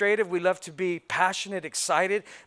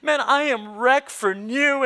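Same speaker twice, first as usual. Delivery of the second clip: mock emotional gush; 6 semitones higher, 5 dB louder than usual. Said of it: "they're like".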